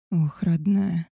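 slow, drawn-out lover's moan with a changed timbre. A narrator's reading. The werewolf to his beloved after love, slow moan. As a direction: let it out as a spent, slow sigh of pleasure. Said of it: "простонал он".

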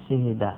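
"شهد" as shihida, i then i; "شهد" opened out as shi-hi-da; variant shihida. Shown as a demonstration. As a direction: say "شهد" with two kasras. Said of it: "أربع لغات".

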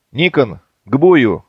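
loud, showy command; deliberately loud. Acted. Ksenofont commanding loudly for show. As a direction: bark it for the enemy to hear. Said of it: "нарочито громко скомандовал Ксенофонт".

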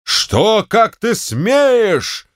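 high, slow furious outrage; furious shout. Acted. General to servant, shouting in outrage. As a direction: roar at the servant's cheek. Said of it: "закричал генерал".

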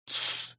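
a soft unvoiced hiss to hush; shushing. The hero hushes the furious Zaruba, a soft shushing. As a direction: shush him, finger to lips. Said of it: "я прижал палец к губам".

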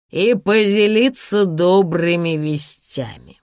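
put-on swaying drunk man gloating. Drunk Sasha voice.

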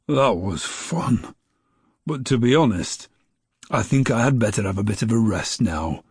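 a tired snowman ready to rest; weary snowman. Acted. Tired snowman after flying.

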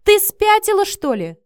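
enraged shout; angry shout. Acted. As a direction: shout her down in fury. Furious man confronts Miranda.

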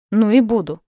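high, loud furious shout. Acted. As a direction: yell it in rage. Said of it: "яростно выкрикнул он".

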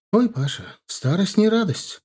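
put-on older woman voice. A narrator's reading. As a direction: play the aging witch complaining lightly. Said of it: "ответила она".

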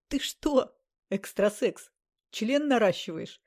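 high mocking question through laughter; laughing. A narrator's reading. Andrey mocking the bandaged occultist, through laughter. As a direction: tease him while still laughing. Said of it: "сквозь смех проговорил".

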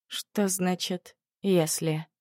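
slow, teasing mimic of the doctor; mock him, slow and teasing; mocking imitation. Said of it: "передразнила Когана Ветта".

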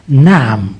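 insist, leaning on each word; insistent. Retold or imitated. Priest voices Christ's warning with full insistence. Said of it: "بمنتهى الإصرار".

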